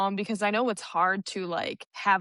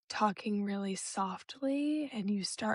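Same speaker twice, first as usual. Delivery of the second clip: soft and slow; 9 dB quieter than usual. Shown as a demonstration. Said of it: "so quietly, like, and calmly".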